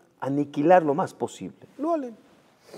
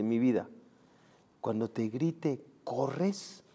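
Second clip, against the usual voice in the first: softer, slow hushed words to his son; low voice; 4 semitones lower, 12 dB quieter, much slower than usual. Acted. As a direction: hush it urgently to a child. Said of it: "le dice a su hijo en voz baja".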